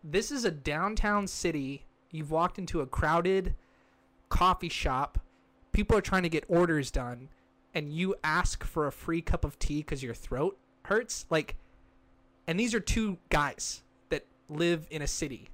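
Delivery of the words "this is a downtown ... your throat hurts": slow it down and lay out the obvious; mock lecture. Mocking a stranger who asked for free tea, slow and pointed.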